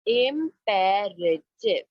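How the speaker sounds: slow, clear model word for the class. Shown as a demonstration. Teacher models the word for kids to repeat, slow and clear. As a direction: stretch it out so pupils can repeat. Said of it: "Say it after me".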